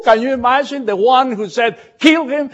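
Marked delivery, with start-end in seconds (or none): 2.0-2.5 much higher, louder mock shout of the order. Preacher mimicking the brother's order, a loud high mock shout. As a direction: fling the words out in disbelief.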